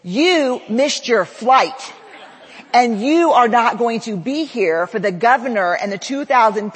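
mock-stern scolding, laughing through it; exasperated coordinator. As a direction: hammer home the missed flight to a dazed speaker. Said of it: "kind, wonderful Jen goes".

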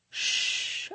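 soft, voiceless whispered hush. A narrator's reading. Lover hushing a woman against her skin, whispered. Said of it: "I whispered against her skin".

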